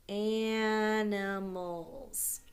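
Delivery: "animals" very drawn out; sounding out slowly. Shown as a demonstration. Teacher dictating the last word to pupils, sounding it out slowly. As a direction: stretch every sound of "animals".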